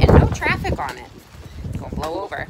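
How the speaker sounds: eager, then easing off; excited thought. Acted. Jenny to herself at the river, rising then settling.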